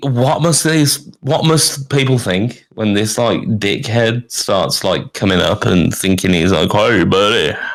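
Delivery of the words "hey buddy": put-on Texan accent. Acting out an obnoxious guy coming up to greet people, Texan accent. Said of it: "I've done Texan way too many times".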